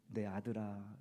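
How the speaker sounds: soft, tender call to a son; warm, tender. Retold or imitated. God calling his child, voiced softly and tenderly. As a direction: speak it gently like a loving father. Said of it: "따뜻하게 말씀해 주시는지".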